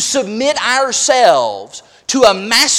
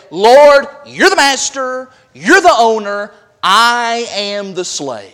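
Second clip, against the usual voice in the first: emphatic submission; 6 dB louder, slower than usual. Acted. Acts a slave addressing the Lord.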